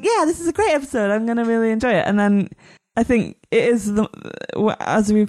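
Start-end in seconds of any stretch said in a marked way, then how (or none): 0.0-2.1 excited. Retold or imitated. Quotes her own eager self.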